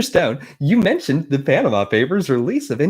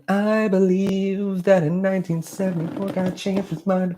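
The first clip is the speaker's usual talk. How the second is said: put-on Mormon accent; 5 semitones higher than usual. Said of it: "How would I even get into a Mormon accent?".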